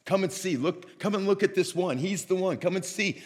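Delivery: high, eager calling out; urgent excited invitation. Acted. John the Baptist pointing followers to Jesus, excited urging. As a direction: act out excitedly pointing someone out to a crowd.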